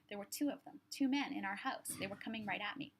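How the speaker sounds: panicked. Acted. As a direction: blurt it out in panic. Panicked man recounting intruders.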